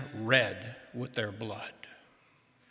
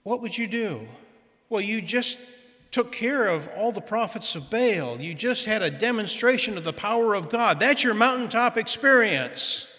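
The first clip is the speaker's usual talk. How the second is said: incredulous preaching; 6 semitones higher than usual. Real, not acted. Preacher incredulous at Elijah fleeing.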